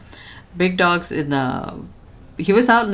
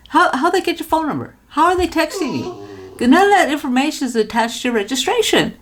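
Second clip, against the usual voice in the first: higher, exasperated explaining; exasperated lecturing; 7 semitones higher than usual. Retold or imitated. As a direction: scold the husband kindly. Scolding husband about scam.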